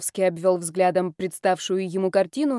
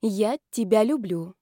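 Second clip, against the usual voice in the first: smiling; slower than usual. Acted. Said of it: "ответила я с улыбкой".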